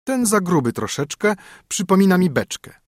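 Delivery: high, teasing sing-song rhyme; a haughty princess mocking a fat knight in verse; princess mocking a suitor. A narrator's reading. Princess sneering at a suitor, teasing and high. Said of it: "ozwała się w ten sposób".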